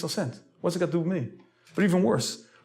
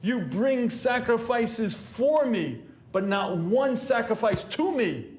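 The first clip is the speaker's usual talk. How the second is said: indignant emperor; 5 semitones higher, slower than usual. Retold or imitated. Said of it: "He gets up and says".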